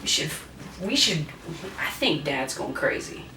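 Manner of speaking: hushed, plotting sisters; conspiratorial whisper. Retold or imitated. Sisters plotting against their dad in a whisper. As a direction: whisper it like a scheme. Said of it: "they're like".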